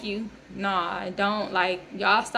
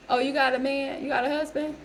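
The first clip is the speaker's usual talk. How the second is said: nosy lady; 4 semitones higher than usual. Retold or imitated. Nosy lady questioning her.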